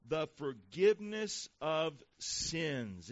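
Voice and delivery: very slow, weighty Bible reading; drawn-out, emphatic pulpit reading; scripture reading. Acted. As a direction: let each phrase land with a pause after it. Reads scripture aloud to congregation.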